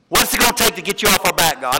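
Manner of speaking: mock exasperated grumble at God; lightly acted gripe; grumbling complaint. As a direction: imitate a fed-up people complaining. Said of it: "That's how I read it".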